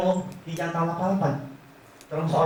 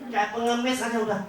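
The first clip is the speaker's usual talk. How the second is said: much higher, scornful voice; mocking husband; 8 semitones higher than usual. Husband mocks the agent as a beggar, high scornful voice. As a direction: sneer at the pushy agent from up high. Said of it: "suaminya ngomong apa".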